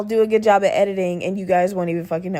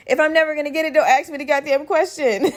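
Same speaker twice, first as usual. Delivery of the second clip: higher, laughing rant; exasperated laugh; 7 semitones higher than usual. Real, not acted. Laughing rant to listeners about hating riddles.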